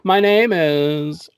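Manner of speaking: hammed-up, drawn-out self-introduction; Poison Ivy. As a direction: stretch it out like a showy seductress. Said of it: "now she's up there".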